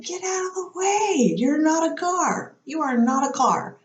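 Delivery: high-pitched exasperated scolding, easing down in pitch; impatient and bitchy. Retold or imitated. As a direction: snap at cyclists in a mock rant. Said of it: "becoming more impatient and bitchy".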